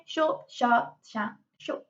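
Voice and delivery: "short, sharp" in quick separate bursts; detached single-word jabs; staccato. Shown as a demonstration. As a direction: chop off each "sharp" and "short". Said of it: "staccato voice".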